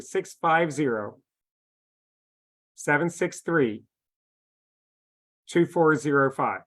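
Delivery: slow dictation with long pauses between groups; saying it slowly. Real, not acted. Presenter dictating a number to coaches texting along, slowly. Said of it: "I'm gonna say it slowly".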